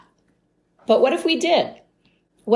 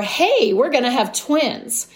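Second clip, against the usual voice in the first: higher-pitched pretend happy news; mock excited announcement; 5 semitones higher than usual. Podcaster giving an example of big happy news, mock excited. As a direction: lightly play breaking joyful news.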